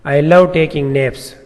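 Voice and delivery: very slow and deliberate, word by word; slow example read. Shown as a demonstration. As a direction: read the exclamation sample slowly for learners. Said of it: "یہ example ہے".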